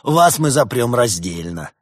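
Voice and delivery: slow, loud gloating threat; slow theatrical villain menace. A narrator's reading. Зловеще расхохотался делец.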